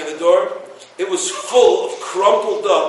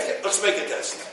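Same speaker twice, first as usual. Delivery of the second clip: hushed, breathy aside; whispered proposal; 8 dB quieter than usual. Retold or imitated. Husband whispers the test idea to his wife, hushed. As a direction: whisper it like a plan between spouses.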